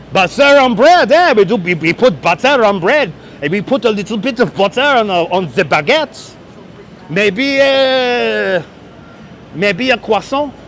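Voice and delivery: mock French accent talking butter and baguettes. To livestream viewers about bread, a mock French accent. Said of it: "You like my French accent?".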